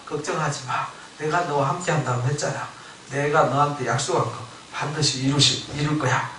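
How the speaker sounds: soft imitated divine reassurance; calm someone down with a quiet promise; reassuring. Tuhan menenangkan Musa yang putus asa.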